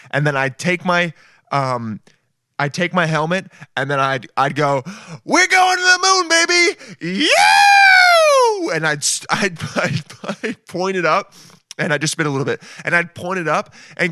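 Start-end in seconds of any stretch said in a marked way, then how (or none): 5.2-8.7 much higher, louder, ending in a shout; over-the-top party yell at liftoff; wild launch whoop. Pretend. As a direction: scream it to the crew like a rock star. His own astronaut character celebrates.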